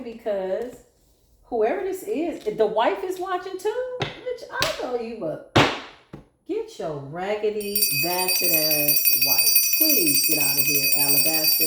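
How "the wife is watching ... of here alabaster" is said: scornful dig at the wife; sassy callout. Real, not acted. Reader calls out the snooping wife, scornful. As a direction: tell her off with attitude.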